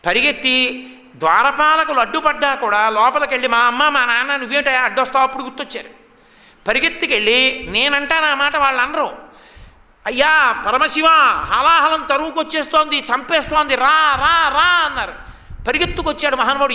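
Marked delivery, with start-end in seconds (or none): 3.5-5.2 urgent protest. Acted. Gods barging past guards. 10.1-14.9 frantic call for help. Acted. Gods crying out to Shiva.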